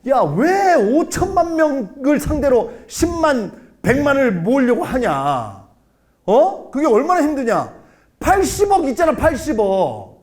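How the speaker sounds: high, loud, pushy coaching; loud exhorting. Retold or imitated. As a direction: fire up your students loudly. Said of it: "유튜브 가르치는 애들한테".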